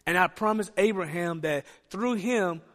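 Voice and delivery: soft, low, intimate voice of God; gentle comfort. Acted. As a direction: reassure the mourning Joshua quietly. God comforting grieving Joshua.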